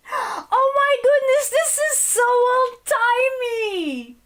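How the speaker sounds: gasp, then high laughing; high, amused and astonished; laughing surprise. Real, not acted. Gasps at old term.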